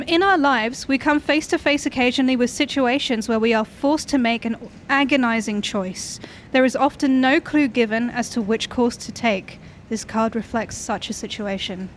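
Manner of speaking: slow, deliberate card reading; reading aloud. Acted. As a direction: read it slowly like an oracle. Reads tarot card text aloud.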